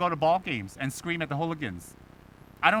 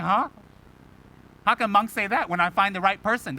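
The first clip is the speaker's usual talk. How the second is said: higher, louder baffled protest; mock disbelief; 3 semitones higher, 4 dB louder than usual. Student hearing the monk's answer, mock disbelief. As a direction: act out a scandalised listener questioning what was heard. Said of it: "And you're like".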